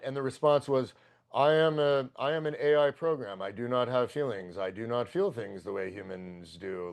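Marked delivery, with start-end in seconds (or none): 1.3-6.9 canned AI reply. Retold or imitated. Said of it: "the pre-formatted fucking response".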